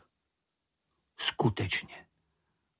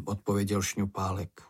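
usual speaking voice

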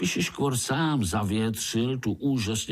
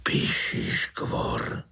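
slow breathless whisper; frightened whisper; much slower than usual. Acted. Uncle whispers the earwig's name to Pája in a slow whisper. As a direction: hush the name as if the monster could hear. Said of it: "zašeptal strýček".

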